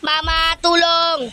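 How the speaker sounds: slow drawn-out cry for help; calling for help. Acted. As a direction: call out for help, stretched slow. Calling mom for help in game.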